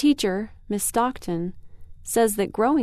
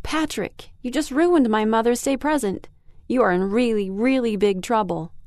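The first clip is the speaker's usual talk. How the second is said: scolding. Acted. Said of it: "boy did I ever say them to Patrick".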